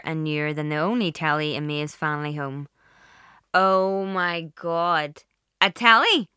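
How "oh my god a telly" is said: excited squeal, very loud. Acted. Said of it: "Caroline squealed".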